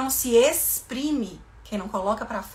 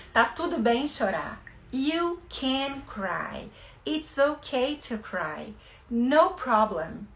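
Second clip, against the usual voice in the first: soothing parent; slower than usual. Shown as a demonstration. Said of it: "A gente vai falar".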